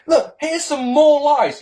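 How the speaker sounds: mocking sneer. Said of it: "You say".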